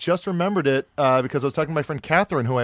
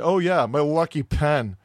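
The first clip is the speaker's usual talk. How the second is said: slow, drawn-out imitated brush-off; slowly imitating someone's unimpressed answer; offhand retold reply; slower than usual. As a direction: take your time, at your usual pitch. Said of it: "I don't think I said it that way".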